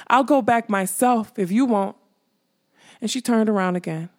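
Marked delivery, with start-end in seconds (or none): 0.1-2.0 loud, determined threat; defiant demand. Acted. Molly threatening to go back alone, defiant. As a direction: dare them to stop her. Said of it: "she demanded".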